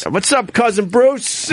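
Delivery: high, drawn-out hello; called-out greeting. Real, not acted. Host greeting a legend in the business, calling out excitedly. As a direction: hail a legend, stretching the name.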